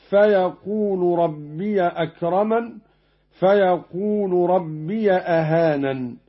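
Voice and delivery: ربي recited "rabbiya" with the ya opened. Shown as a demonstration. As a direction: give ربي a fatha on its ya, "rabbiya". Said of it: "قرأ قالون بفتح ياء ربي".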